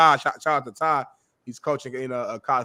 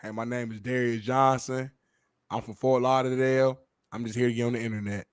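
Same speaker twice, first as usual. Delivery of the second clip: softer, laid-back player intro; mimicking a player; 3 semitones lower, 5 dB quieter than usual. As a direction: toss the intro off casually. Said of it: "My boy said".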